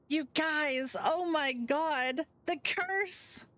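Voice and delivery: put-on high, gushing girl bursting in; bubbly Finley.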